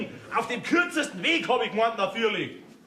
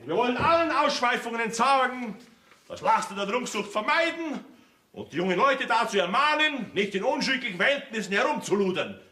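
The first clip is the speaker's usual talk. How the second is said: solemn, measured speech delivery; formal speech. Acted. Mayor practises his festival speech for the family, formal declaiming.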